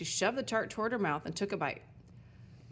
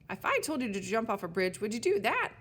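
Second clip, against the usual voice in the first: louder scolding shout; shouted back; 3 semitones higher, 4 dB louder than usual. Acted. Sign shouts back at Elsbeth, louder. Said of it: "the sign shouted back".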